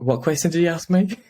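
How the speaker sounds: a high, giggly retold what; laughing mock question. Guest retells Venus Williams forgetting his question, high laughing. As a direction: ask it through laughter, mocking.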